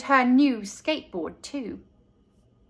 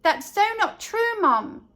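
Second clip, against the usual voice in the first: put-on higher, indignant older sister; a lightly voiced sister objects; protesting sister; 7 semitones higher than usual. A narrator's reading. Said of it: "Susie said".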